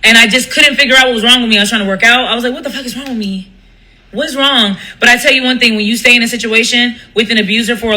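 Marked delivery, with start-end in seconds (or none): 2.5-4.8 much softer, inward frustration; muttered to herself. Retold or imitated. Asking herself what's wrong, much softer. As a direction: ask yourself under your breath. Retold inner despair.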